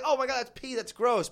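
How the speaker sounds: a kid squealing at the gross cartoon. Kid voiced reacting.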